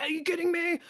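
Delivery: imitating an overwhelmed wife; mock frazzled wife. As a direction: burst out as the stressed-out mother. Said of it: "And she's like".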